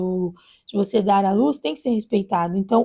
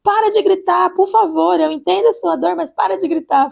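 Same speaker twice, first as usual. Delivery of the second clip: retold nurse pleading; 7 semitones higher than usual. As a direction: beg her to stop screaming, pitched up. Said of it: "falando pra ela".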